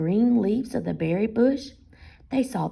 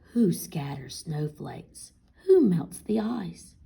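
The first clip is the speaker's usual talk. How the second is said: recited like a stage poem, louder; 5 dB louder than usual. A narrator's reading. Frederick recites his poem to the mice, stagey and louder. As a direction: declaim each question to an audience. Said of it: "as if from a stage".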